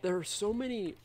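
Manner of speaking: talking through hiccups; hiccuping. Real, not acted. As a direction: hiccups breaking the words. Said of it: "as I'm hiccuping".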